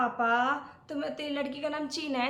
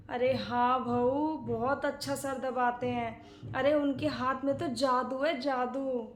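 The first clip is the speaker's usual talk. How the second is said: drawn-out, softened praise; dreamy admiration; 2 semitones lower, slower than usual. Acted. Aunt boasts of husband's magic hands, dreamy admiration. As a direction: savour the praise slowly and fondly.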